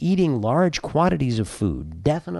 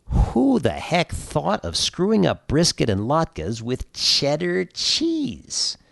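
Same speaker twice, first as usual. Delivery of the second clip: exasperated; 5 semitones higher, slower than usual. Acted. Exasperated rant about cheese on brisket.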